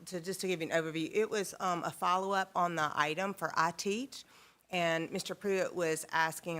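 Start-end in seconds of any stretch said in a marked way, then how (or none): 1.8-6.6 talking around a peppermint; mouth full. Real, not acted. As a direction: speak with candy in the mouth. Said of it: "I have peppermint in my mouth".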